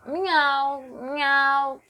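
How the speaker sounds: lightly voiced cat meow; playful meowing miau; mock meow. Shown as a demonstration. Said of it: "som do gato".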